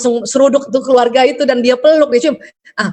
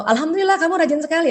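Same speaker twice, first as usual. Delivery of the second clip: brisk, bright, pitched-up praise; cheerful praise; 5 semitones higher, 4 dB quieter, faster than usual. Retold or imitated. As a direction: praise the child quickly and happily.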